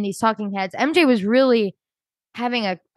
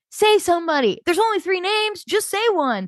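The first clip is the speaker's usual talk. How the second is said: lightly mimicked pushy CT, higher pitch; a half-mocking push, pitch raised; pushy questioner; 9 semitones higher than usual. Mimicking CT pressing Phaedra at breakfast.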